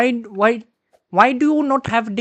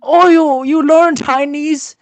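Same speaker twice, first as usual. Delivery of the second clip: broken English, put-on Chinese accent; fake Chinese accent; 4 semitones higher, 3 dB louder than usual. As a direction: play a fake Chinese man. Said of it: "stop the accent".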